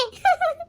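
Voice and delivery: short high sobbing whimper; stagy sob. Acted. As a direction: let out a soft, put-on sob. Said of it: "அழுகாதீங்க".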